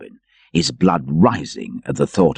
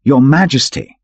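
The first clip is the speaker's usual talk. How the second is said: cried out; 8 semitones higher, 4 dB louder than usual. Acted.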